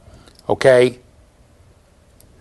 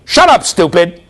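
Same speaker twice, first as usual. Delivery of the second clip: mock-cross father's retort, slightly higher; bird mimicking father; 4 semitones higher, 3 dB louder, slower than usual. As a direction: imitate a bird copying an annoyed dad. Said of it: "the bird in my father's voice".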